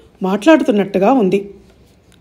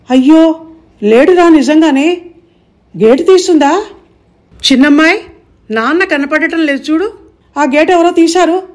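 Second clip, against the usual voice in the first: alarmed aunt; 6 semitones higher than usual. A narrator's reading. Aunt finds husband missing.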